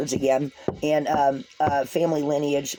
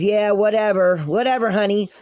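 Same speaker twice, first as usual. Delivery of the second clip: dismissive eye-roll; 3 dB louder than usual. Retold or imitated. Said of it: "Uncle Ralph over there rolls his eyes and goes".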